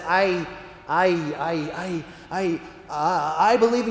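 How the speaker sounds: halting, tongue-tied start; paralyzed stammer. Acted. Franciscan answering God, paralyzed stammer. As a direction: stammer repeatedly before getting it out. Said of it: "the Franciscan is just paralyzed".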